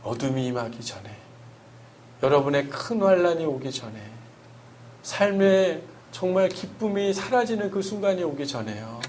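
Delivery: earnest sermon voice swelling and falling; sermon preaching. Acted. Pastor preaching Psalm 23 to the congregation, earnest sermon delivery.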